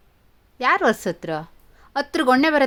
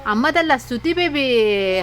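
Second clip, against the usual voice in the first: 1 laughing correction; 3 semitones higher, slower than usual. Real, not acted. Mother laughs while correcting.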